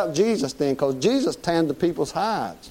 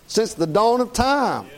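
slow preaching emphasis; 4 semitones higher, slower than usual. Real, not acted. Repeated preaching line.

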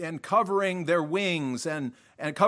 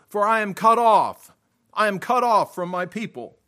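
loud, higher proclamation, easing off at the end; retold cry; 3 semitones higher, 5 dB louder than usual. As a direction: declaim it as the prophet's lament. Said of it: "causes Isaiah to cry".

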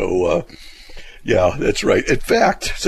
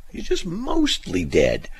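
drawn-out, higher quoted line; slow it down as a lightly performed film line; movie quote; 8 semitones higher, slower than usual. Acted. Host quoting a favourite movie line, slowly hammed up. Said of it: "I also like the line in there".

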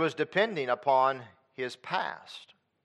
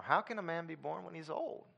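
much softer, almost under the breath, rising at the end; soft puzzled question; 4 semitones higher, 10 dB quieter than usual. Shown as a demonstration. Preacher trying another reading of Nicodemus, soft and puzzled. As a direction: ask it quietly, honestly baffled.

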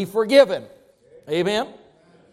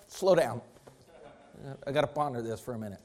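mock stalling; 8 semitones lower, 8 dB quieter, faster than usual. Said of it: "man's excuses".

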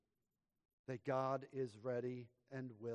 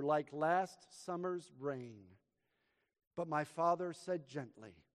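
dramatic poem reading, louder in the verses; poem recital; 2 semitones higher, 8 dB louder than usual. Acted. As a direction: recite it with rising passion, then hush for the father. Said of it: "this is how the poem went".

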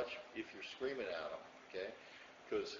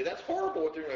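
mock alarm; 6 dB louder, faster than usual. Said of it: "We'd say".

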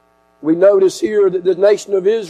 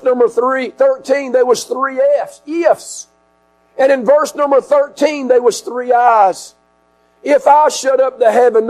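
raised preaching voice; 6 semitones higher than usual. Real, not acted. Preacher expounding God's warnings of drought and pestilence, forceful preaching. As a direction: preach it higher and firmer than conversation.

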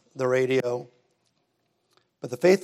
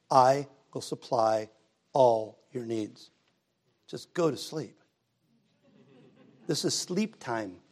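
soothing God; slower than usual. Acted. God soothing sleepless preacher.

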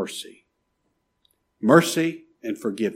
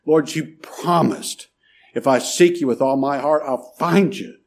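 pleading; 3 semitones higher, 3 dB louder than usual. Acted. Believer holding God to his promise, pleading. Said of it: "you plead his promise".

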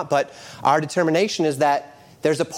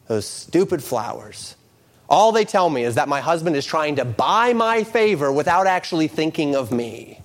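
resentful wife. Acted.

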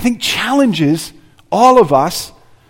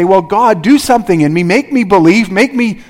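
mock lazy prayer; 4 semitones higher, 4 dB louder than usual. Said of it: "It's like we say".

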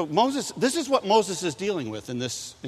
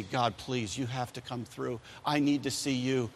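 desperate plea; 3 semitones lower, 7 dB quieter than usual. Acted. Desperate prayer voiced.

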